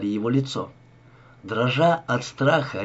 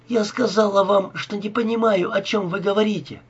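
high, tearful sobbing plea; 8 semitones higher than usual. A narrator's reading. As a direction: sob out the denial. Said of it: "всхлипывала Зоя".

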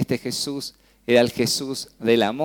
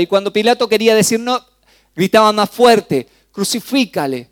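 rising sermon shout; 7 semitones higher, 6 dB louder than usual. Acted. Preacher builds to crowd shout.

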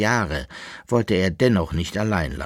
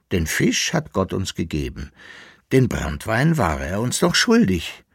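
lightly voiced character, swinging intonation; cheeky self-justifying; 4 semitones higher, 4 dB louder than usual. Koppelbär justifies taking the brandy to his companion, lively and emphatic. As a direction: argue your case with expansive emphasis.

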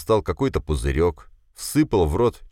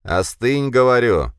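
stern; 7 semitones higher, 5 dB louder, slower than usual. A narrator's reading. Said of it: "хмуро посмотрел".

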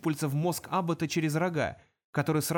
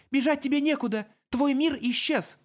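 louder, higher commanding shout; 10 semitones higher, 4 dB louder than usual. Acted. Elf with gun shouting at the demon. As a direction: order him to let go.

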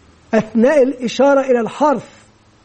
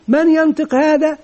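lightly raised quizzing question; teacher asking pupils; 5 semitones higher than usual. Retold or imitated. Teacher to young pupils, a lightly raised questioning voice. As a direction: ask the little class who can read it. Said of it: "مثلًا إذا قلت".

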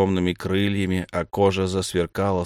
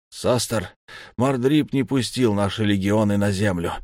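ordinary delivery, nothing marked

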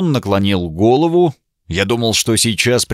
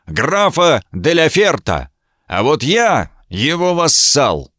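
высоко и медленно, с горячим напором; горячо, с гордостью за графа; с жаром; 5 semitones higher than usual. A narrator's reading. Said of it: "объявил он с жаром". (вассал с жаром называет своего сюзерена)

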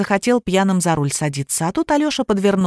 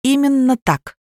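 sharp reply; 6 semitones higher, slower than usual. A narrator's reading. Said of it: "резко ответила Алиса".

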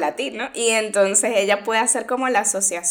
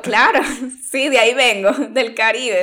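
louder, amused agreement with a laugh; answering that her accent sounds like the beach, laughing; laughing reply; 5 dB louder than usual. Retold or imitated. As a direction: laugh as you proudly agree.

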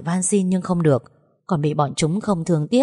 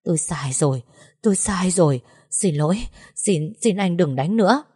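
mild, stammering begging; trembling plea. Acted. Young master kneeling at Thành's feet, mildly trembling plea. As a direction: beg for mercy, half-hearted fear. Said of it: "run lẩy bẩy rồi nói".

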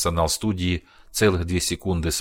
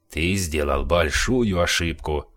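menacing threat; slower than usual. Acted. Alex threatens thug.

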